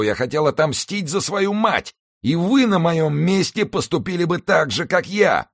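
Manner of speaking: drowning man wailing, loud and high; desperate wail. A narrator's reading. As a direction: wail it in despair. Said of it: "в отчаянии возопил".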